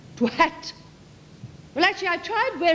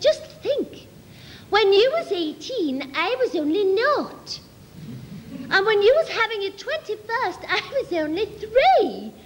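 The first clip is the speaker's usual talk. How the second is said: prim schoolgirl; 3 semitones higher than usual. Retold or imitated. Her own voice in dialogue.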